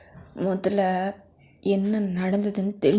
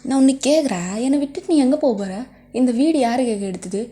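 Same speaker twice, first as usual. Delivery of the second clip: furious shout; 2 semitones higher, 5 dB louder than usual. Acted. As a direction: rattle off the demands in a rage. Boyfriend shouts possessive demands. (ஆவேசமாக கத்துவது)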